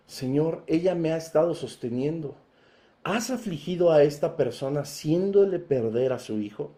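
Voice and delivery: Elías ora en voz baja y grave; oración contenida. Acted. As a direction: pregunta suave y más grave a Dios. Voz de Elías orando, imaginada. (súplica callada de Elías)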